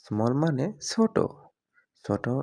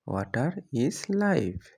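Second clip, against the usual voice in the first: slow, word by word for learners; drawn out for students to copy; slow clear repeat; much slower than usual. Shown as a demonstration. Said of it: "example then repeated slowly". (ধীরে স্পষ্ট করে)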